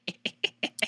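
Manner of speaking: breathy, voiceless snicker; wordless giggle to show how you laugh; demonstrated laughter. Retold or imitated. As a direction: act out laughing at your own post. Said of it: "I be laughing when I post".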